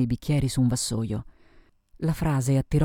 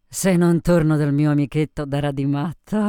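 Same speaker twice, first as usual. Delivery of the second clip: lightly voiced tipsy woman; loud, boozy candour; a hint of drunken swagger; drunken Sophie; 6 dB louder than usual. Drunk Sophie talks of her lover.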